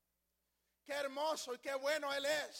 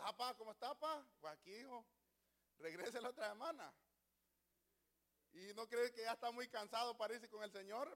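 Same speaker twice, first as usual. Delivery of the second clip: acted father and son; 3 semitones lower, 5 dB quieter, faster than usual. Son and old father act out a scene.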